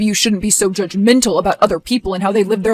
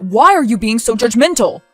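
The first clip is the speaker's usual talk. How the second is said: angry; 5 dB louder than usual. Acted. Quarrel over the bride.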